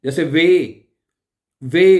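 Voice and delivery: वे as Punjabi "ve"; German W. Shown as a demonstration. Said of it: "Punjabi जुबान में pronounce करते". (पंजाबी वाला "वे")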